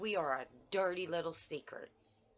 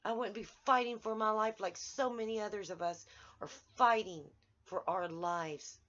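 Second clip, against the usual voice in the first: real anger; 5 semitones higher, 4 dB louder than usual. Real, not acted. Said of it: "I'm just so angry".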